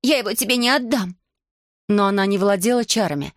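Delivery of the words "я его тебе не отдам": put-on high defiant girl's voice. Girl refusing to give up her dragon, high. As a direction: refuse him fiercely.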